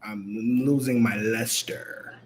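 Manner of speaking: low, soft, defeated mumble; deflated whisper. Real, not acted.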